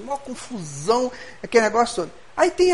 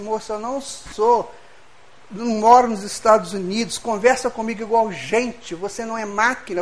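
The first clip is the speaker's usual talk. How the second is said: exasperated retort; 5 dB louder than usual. Retold or imitated. Retells protesting to the attendant.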